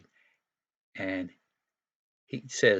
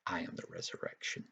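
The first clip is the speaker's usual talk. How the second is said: whispered; 2 semitones lower, 7 dB quieter than usual. Retold or imitated. Jesus speaks, voiced in story.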